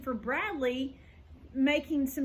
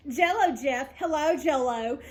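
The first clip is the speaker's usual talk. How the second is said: giggling through the words; laughing; 4 dB louder than usual. Acted. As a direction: laugh while saying it. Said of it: "She laughed hysterically".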